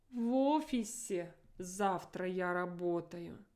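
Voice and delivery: офисе stressed with a rising-falling accent; emphasis on офисе. Shown as a demonstration. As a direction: hit офисе with the intonation. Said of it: "I have to emphasize it with my intonation".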